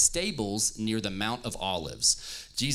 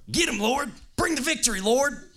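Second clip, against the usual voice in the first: much higher, louder cheering cry; crowd shout; 13 semitones higher, 5 dB louder than usual. Acted. Preacher redoing the crowd's cheer louder for the church. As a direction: roar it like the crowd. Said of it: "I feel like that's something".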